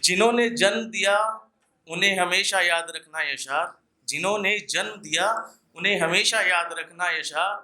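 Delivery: earnest poetic recital, repeating each line for effect; ghazal recitation. Acted. Poet warning listeners in verse, earnest recital. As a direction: plead gently with the crowd through the verse. Audience requests last couplet again.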